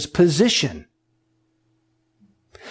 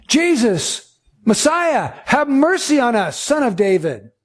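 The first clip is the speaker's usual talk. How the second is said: lifted, pleading plea for mercy; pleading blind men; 5 semitones higher than usual. Retold or imitated. Preacher voicing blind men begging Jesus, pleading. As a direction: cry out for mercy, pitch raised.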